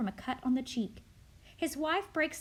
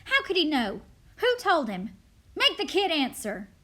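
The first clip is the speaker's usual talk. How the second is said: loud, higher-pitched interrogation; demanding; 3 semitones higher, 6 dB louder than usual. Acted. Crowd interrogating the kid, loud and demanding. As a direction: fire accusing questions at the child.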